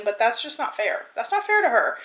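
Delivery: ordinary delivery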